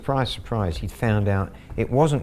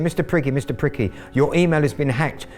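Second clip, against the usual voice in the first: fast, high, rising to loud panic; the scammer phones in a panic, fast and high; panicked scammer; 5 semitones higher, 3 dB louder than usual. Retold or imitated. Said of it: "He was panicked".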